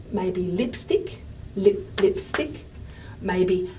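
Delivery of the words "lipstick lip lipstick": slow lipstick, both syllables stressed; two strong syllables. Shown as a demonstration. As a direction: give "lip" and "stick" equal weight. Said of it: "words that have two strong syllables".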